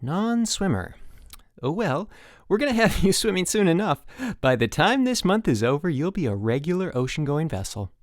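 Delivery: put-on beam at the new kid; sunny camp-coach voice; bright. Dave the chipper coach.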